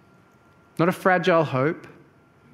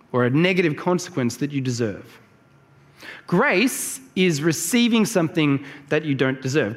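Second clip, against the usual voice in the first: usual speaking voice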